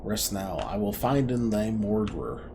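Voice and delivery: lightly voiced solemn Cutter of the Wood; archaic woodcutter. Cutter of the Wood solemnly addresses the dying creature, lightly voiced. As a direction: speak like an old forest hunter, solemn.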